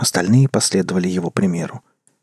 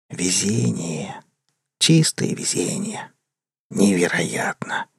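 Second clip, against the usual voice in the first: slow, soft, unvoiced whisper; fading whisper; 2 semitones lower, 5 dB quieter, slower than usual. A narrator's reading. The departing voice murmuring to itself, soft and slow whisper. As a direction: let it drift away into the rain. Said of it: "еле уловимый шёпот".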